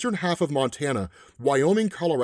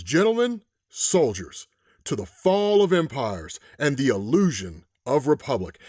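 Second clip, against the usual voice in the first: western toast. Retold or imitated. The man in white toasts the soldiers in a hammed western voice. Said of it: "I'm gonna put on a Western voice here".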